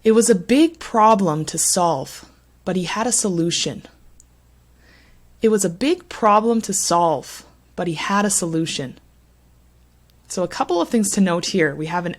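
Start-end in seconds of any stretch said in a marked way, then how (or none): 0.0-3.9 careful model reading, punching "big problem" and "solve"; sentence stress demo. Shown as a demonstration. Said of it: "Let me read it for you". 5.4-9.0 teacher's repeat reading, quicker on "but he had a solution"; rhythmic, with "It was a" light before stressed "big problem"; sentence stress demo. Shown as a demonstration. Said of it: "Let me read it for you".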